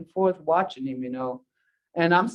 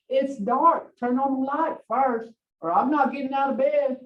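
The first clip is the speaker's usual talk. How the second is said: a touch higher, insistent demand; child complaining; 3 semitones higher than usual. Pretend. Child demanding the light in the morning, insistent whine. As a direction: refuse to get up till the light's on. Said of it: "what they turned into".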